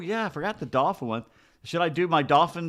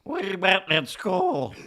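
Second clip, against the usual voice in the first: dolphin dad voice; 3 semitones higher, much slower than usual. Pretend. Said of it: "I'll be the dad".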